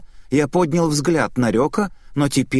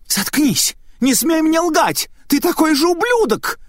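furious screaming; 14 semitones higher, 3 dB louder than usual. Acted. Possessed Ryoka screams fury at the lying Naita. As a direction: spit hatred at a liar.

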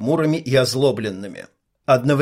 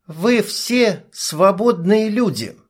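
proclaiming; 7 semitones higher, slower than usual. A narrator's reading. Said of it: "объявила Ника".

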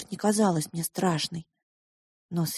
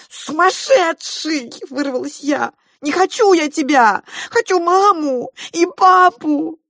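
hysterical scream; 11 semitones higher, 9 dB louder than usual. Acted. Girl tears free, screaming.

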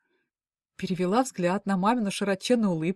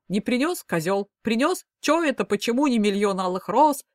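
mock female displeasure; 3 semitones higher, 4 dB louder than usual. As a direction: parody a nagging wife, hammed-up. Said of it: "изобразил он женское недовольство".

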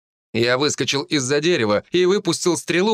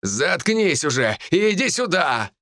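higher-pitched exasperated order; angry demand; 5 semitones higher than usual. Acted. Hawk challenges the hidden druid, angry raised voice. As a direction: order him over, fed up. Villain yells at raven again.

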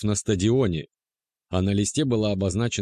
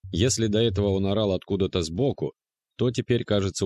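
usual speaking voice

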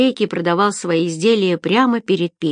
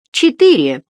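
higher, louder eager blurt; overreaching order; 6 semitones higher, 6 dB louder than usual. A narrator's reading. Hungry Eggard overordering from the baker, eager. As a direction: blurt it out greedily. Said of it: "хватил лишку Эггард".

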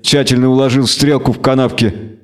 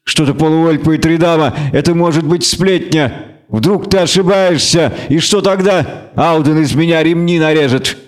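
stern alderman pleading; 3 semitones higher than usual. Acted. Captain forbids Geralt, ends shouting.

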